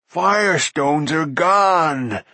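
slow, loud creature wail; moaning. A narrator's reading. Creature finding flints lost, dismal moaning. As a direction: wail it high and drawn out. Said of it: "Gurgi moaned".

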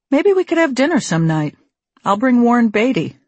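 lightly acted male suitor's offer; pickup line. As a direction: lift the pitch for a hopeful pickup line. Quoting the pollster's pickup line.

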